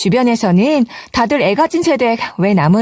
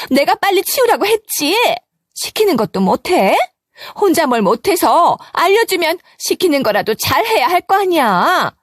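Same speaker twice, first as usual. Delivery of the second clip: 높은 목소리로 며느리를 다그치는 시어머니; 답답하다는 듯 높게 쏘아붙이는 시어머니; 시어머니의 타박; 6 semitones higher than usual. Acted. (며느리를 구박하는 시어머니의 높고 날선 목소리)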